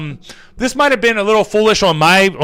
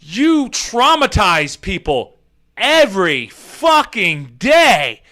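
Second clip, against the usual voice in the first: slow, disbelieving question; incredulous; 4 semitones higher, much slower than usual. Retold or imitated. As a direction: stretch it out in disbelief. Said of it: "And I'm like".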